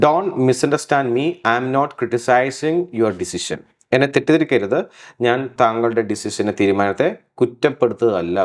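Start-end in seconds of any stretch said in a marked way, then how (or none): 0.1-3.6 Don't misunderstand me, each word drawn out; slow example read. Shown as a demonstration. Teacher reads the example sentence slowly to students. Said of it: "slow example read".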